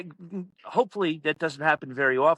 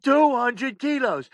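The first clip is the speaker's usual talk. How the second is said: high, slow, exasperated retort; mock exasperation, dragging out the words; fed-up outburst; 8 semitones higher, 4 dB louder, slower than usual. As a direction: imitate someone at the end of their patience. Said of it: "And Dave had enough".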